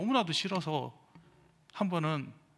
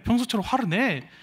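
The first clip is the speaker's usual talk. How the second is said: mock demand; 7 semitones higher, 6 dB louder than usual. Comrades demand he get angry.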